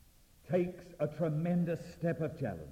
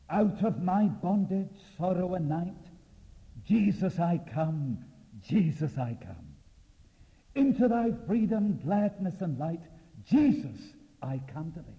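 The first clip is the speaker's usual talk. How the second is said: loud, ringing declamation, higher on each opening; fervent hymn recital; 4 semitones higher, 6 dB louder than usual. Acted. Preacher imagines Peter's hymn on the water, loud and fervent. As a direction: proclaim the hymn verse with force.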